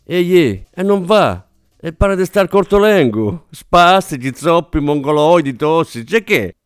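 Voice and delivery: a fussy actress venting; agitated rant. Acted. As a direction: rant down the phone, worked up. Actress ranting to her agent.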